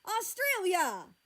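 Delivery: high, drawn-out, loud reprimand; scolding shout. A narrator's reading. Parent interrupts the squabbling child, shouting sternly. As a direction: bellow the name slowly to stop them.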